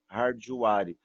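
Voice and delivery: hardware said as har-dju-a-ri with an extra vowel; imitating how some say hardware; imitating a mispronunciation. Teacher imitating others' mistake for students. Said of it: "Eu já ouvi isso".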